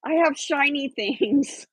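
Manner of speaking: high, drawn-out call to the crows; slow, high-pitched mock yell. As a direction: imitate yelling to birds, pitched high without real volume. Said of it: "I yell at them".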